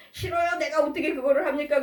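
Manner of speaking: lightly acted obstinate objection; stubborn refusal. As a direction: play a child digging their heels in. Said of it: "그러고 막 고집 부리고".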